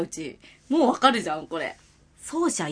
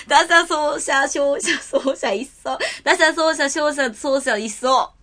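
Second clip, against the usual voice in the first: laughing; slower than usual. Real, not acted. Laughing through tongue twister.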